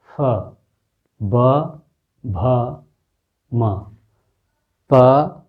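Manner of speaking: प, फ, ब, भ, म said letter by letter with the lips; teacher showing the labial row; lip letter demo. Shown as a demonstration. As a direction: press the lips for प फ ब भ म. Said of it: "ओठ, obviously".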